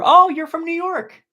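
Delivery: high, loud, drawn-out happy "oh"; slow, high-pitched pleased recognition; delighted surprise. Real, not acted. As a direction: greet a newfound neighbor with real excitement. Discovers the viewer is a neighbor.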